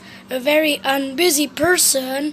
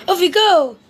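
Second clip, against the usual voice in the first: eager call; 4 semitones higher, 5 dB louder than usual. Acted. Mister Busy cheerful.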